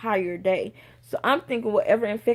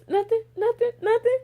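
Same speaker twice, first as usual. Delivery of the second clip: exasperated disbelief; 12 semitones higher than usual. Retold or imitated. Mock search results exasperation.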